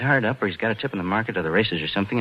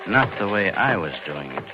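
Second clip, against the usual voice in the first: noir narration. A narrator's reading. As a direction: tell it like a man confessing his own crime. Past-tense narration over music.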